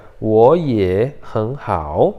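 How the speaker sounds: 我也很好 slowly, in two pairs; tone change demo. Shown as a demonstration. Teacher models the final phrase, 我也很好 slow and paired. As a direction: draw out 我 and 很 with rising tone. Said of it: "Então, fica".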